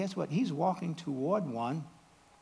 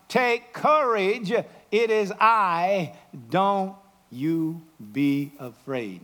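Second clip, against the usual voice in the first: calm reassurance; 5 dB louder, slower than usual. Acted. Jesus reassuring the disciples.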